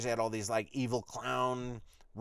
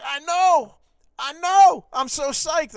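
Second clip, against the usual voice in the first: much higher and louder, bursting with glee; thrilled shout; 13 semitones higher, 14 dB louder, slower than usual. Retold or imitated. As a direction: squeal it like a delighted fan. Boat owner thrilled about the show.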